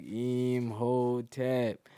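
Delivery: group mummy call. Retold or imitated. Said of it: "we're just like".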